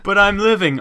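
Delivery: loud, high, mock-panicked protest. Patient protesting to the doctor who declared them dead, loud high mock panic. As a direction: yelp it like a patient refusing to be dead.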